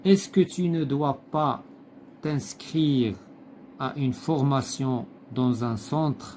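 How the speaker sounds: slow, deliberate read-aloud of the text; slow textbook reading. Acted. Teacher reading the textbook passage to pupils, slow and deliberate. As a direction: read each phrase slowly, like dictation to the class.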